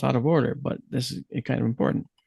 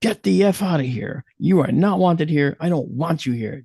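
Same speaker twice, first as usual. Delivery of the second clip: angry order to leave, raised voice; ordering the presence out of his shop; yelled command; 4 semitones higher, 4 dB louder than usual. Retold or imitated. Man yelling at a shadow to get out. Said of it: "And I yelled out".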